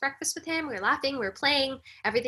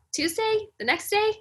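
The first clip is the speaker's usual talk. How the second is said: high incredulous question; 10 semitones higher than usual. Retold or imitated. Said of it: "And I said".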